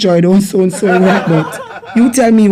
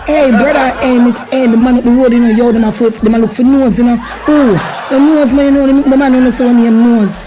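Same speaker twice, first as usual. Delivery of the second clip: mocking Jamaican street talk; 3 semitones higher than usual. Acting out a street mocking scene.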